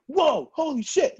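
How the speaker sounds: high, loud, slow imitated awe; a stunned guy, drawn out; amazed. Retold partner reacting to his singing, amazed. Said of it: "he goes".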